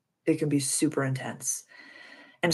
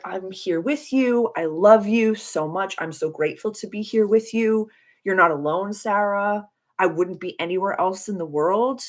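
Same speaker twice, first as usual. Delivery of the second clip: tender self-talk; 3 semitones higher than usual. Retold or imitated. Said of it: "physically hugging myself, crying, and being like".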